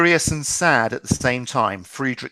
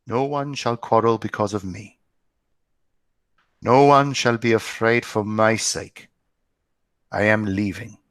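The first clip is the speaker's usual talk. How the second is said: calmly. Acted.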